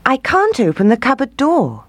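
put-on high, innocent girl; little girl voice. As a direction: play helpless. Gretel pretends helplessness.

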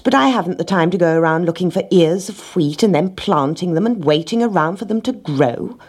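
lightly voiced rat making excuses; rat, reluctant. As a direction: run through the tiresome chores as objections.

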